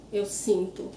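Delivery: sinto stressed first, ending in oo; final O as U. Shown as a demonstration. Teacher advises students on word endings, sinto with final U. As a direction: say sinto as SEEN-too. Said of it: "when they say U".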